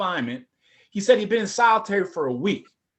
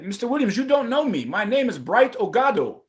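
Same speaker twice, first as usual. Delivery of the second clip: put-on Nigerian accent; 5 semitones higher than usual. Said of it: "another Nigerian accent".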